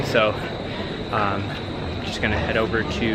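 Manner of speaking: winded from walking in the heat; talking while catching breath. Real, not acted. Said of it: "I'm a little out of breath".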